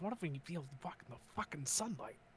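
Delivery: secretive, hushed, close whisper. Voicing a character who leans in close to speak: whispering. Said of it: "then he fucking leans in and whispers".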